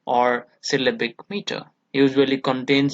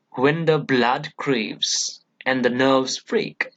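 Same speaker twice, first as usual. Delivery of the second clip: "When the blood craves and the nerves break", slow, weight on blood, craves, nerves, break; stress on content words; slower than usual. Shown as a demonstration. Teacher reads the pyrrhic example, slow content-word stress. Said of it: "when the is not given importance".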